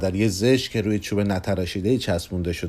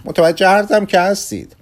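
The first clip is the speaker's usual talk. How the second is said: pleading; 9 semitones higher, 6 dB louder than usual. Acted. Kugelmass pleads to analyst.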